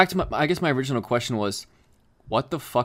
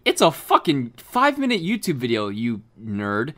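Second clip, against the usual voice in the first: outraged yell; 4 dB louder, slower than usual. Retold or imitated. Outraged reply to hater.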